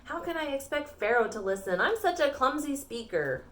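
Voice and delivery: a touch of complaint, as acted storytelling; objecting. Moses making excuses to the Lord, mildly whiny objection. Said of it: "Moses objected".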